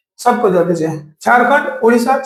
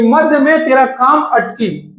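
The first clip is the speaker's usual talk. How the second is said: slow mnemonic recital; slower than usual. Shown as a demonstration. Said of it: "ऐसा ले लीजिएगा कि".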